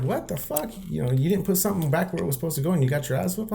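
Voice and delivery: mild mock shock at the story; disbelieving friend. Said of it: "They were like".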